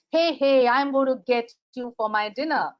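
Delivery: a hint of a hungry cat calling out; menacing cat. The cat tells the mice it will eat them, lightly menacing.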